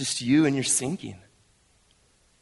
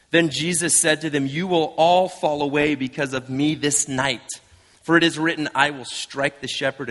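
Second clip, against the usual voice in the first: slightly raised, projected reading voice; scripture reading; 2 semitones higher, 4 dB louder than usual. Acted. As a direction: read the passage aloud to the congregation. Reads scripture aloud.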